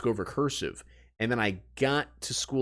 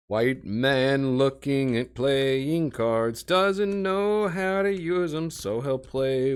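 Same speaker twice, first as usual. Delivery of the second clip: slow, mock nature-documentary narration; slow, higher mock narrator voice; 3 semitones higher, 3 dB louder, much slower than usual. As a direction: narrate yourself like a wildlife film.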